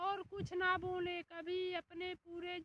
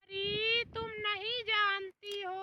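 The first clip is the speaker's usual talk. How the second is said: stern rebuke; 5 dB louder than usual. Acted. Husband scolds wife loudly.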